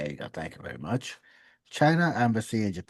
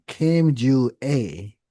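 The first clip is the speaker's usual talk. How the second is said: calling out; 2 semitones higher, 6 dB louder, slower than usual. Pretend. Calling out a name.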